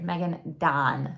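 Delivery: "Megan Dawn" said slowly, each word set apart; careful pronunciation. Shown as a demonstration. Correcting the author's name for listeners, slow careful "Megan Dawn". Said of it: "I have a Michigander accent".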